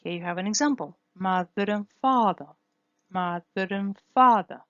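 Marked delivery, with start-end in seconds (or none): 1.1-4.6 "mother and father" with a tapped R linking "mother" to "and"; "father" louder, linking R tapped in "mother and"; linking flap R. Shown as a demonstration. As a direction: tap the R between "mother" and "and". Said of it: "as linking R".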